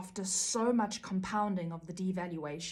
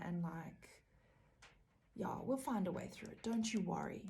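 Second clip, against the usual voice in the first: softer, condescending soothing voice; fake-gentle narcissist, much softer; mock soothing; 4 dB quieter than usual. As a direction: hush it like placating a child, but smug. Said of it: "And the narcissist will be like".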